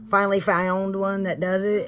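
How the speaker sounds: slipping into a Texan accent. Real, not acted. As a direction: let the Texan accent come through. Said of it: "there's my Texan accent".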